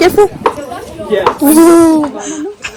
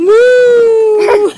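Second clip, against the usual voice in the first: 1 cow call; 7 semitones higher than usual. Shown as a demonstration. Parent calling cows for toddler.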